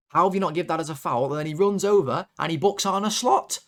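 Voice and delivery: indignant fan railing at the referee; incredulous rant. Real, not acted. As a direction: protest in disbelief, pitch climbing. Ranting at the referee's decision.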